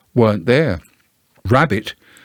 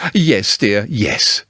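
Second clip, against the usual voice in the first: soothingly; much slower than usual. Acted. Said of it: "said Kanga soothingly".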